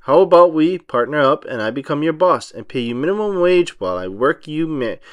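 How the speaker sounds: a hint of a gruff old sea captain, savoring the food; lightly voiced Mr Krabs. Mr Krabs praising SpongeBob's fresh patty, lightly gruff pirate voice. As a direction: gently growl it like a greedy old crab.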